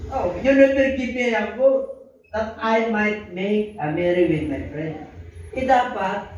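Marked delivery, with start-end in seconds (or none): 0.1-5.0 slow, higher whiny complaint; elder son whining to his father, slow and higher; sulking elder son. Acted. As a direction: drag it out like a resentful son. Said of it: "sabi niya".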